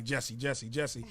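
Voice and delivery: low, subdued name-calling; imitated listeners. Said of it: "some of y'all might be like".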